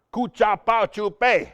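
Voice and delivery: high, punchy mock proclamation; loud joke announcement. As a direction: call it out to reel the kids in. Joke phrase shouted to squirrely kids.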